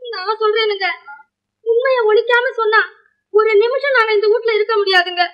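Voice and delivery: tearful, slightly high complaint; plaintive, on the verge of tears. Acted. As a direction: tell it as if close to crying. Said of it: "அழாம, அழாம சொல்லுங்க".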